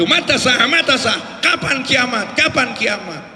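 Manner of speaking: mild mock calling out; imitated shout. Villager asking the Prophet about Judgment Day, mildly shouted. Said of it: "Dia teriak-teriak".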